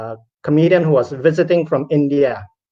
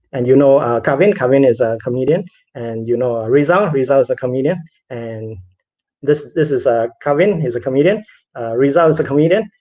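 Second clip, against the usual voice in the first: upbeat introduction. Retold or imitated. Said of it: "One of these introductions is not the same".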